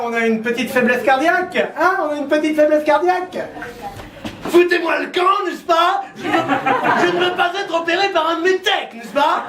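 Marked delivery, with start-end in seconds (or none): 4.4-9.4 hammed-up old far-right politician barking, higher; gruff old politician tossing out the doctor; Le Pen impression. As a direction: bark it out as a cranky old demagogue. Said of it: "Le Pen, John Mary".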